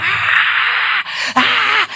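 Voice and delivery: high, breathy cries of a man breaking down; imitated wailing scream; retold crying scream. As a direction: cry out like a sobbing man in an airport.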